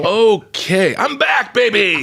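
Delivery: high, showy drag queen entrance; drag queen diva. Pretend. Announcing herself to the crowd, high showy drag diva.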